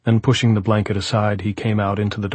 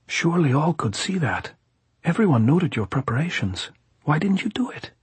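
high-pitched, pressing gypsy voice; insistent gypsy; 8 semitones higher than usual. A narrator's reading. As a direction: press the point as the gypsy plotter.

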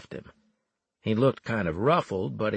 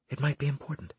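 Evelyn; 5 semitones higher, 5 dB quieter, faster than usual. A narrator's reading. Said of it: "Evelyn said".

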